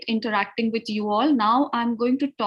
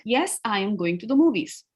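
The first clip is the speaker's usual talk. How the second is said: "Yes, I am going to the movies" as a level statement; straight answer intonation; 3 semitones lower than usual. Shown as a demonstration. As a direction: keep "going to the movies" straight, no questioning lift. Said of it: "then you just go straight".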